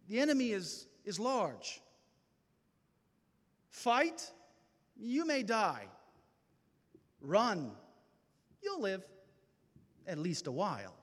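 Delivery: William Wallace. Retold or imitated. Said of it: "turned to his peasants and said".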